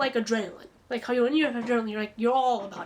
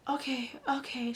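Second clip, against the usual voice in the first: calm; 4 dB quieter than usual. Retold or imitated. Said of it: "very calm".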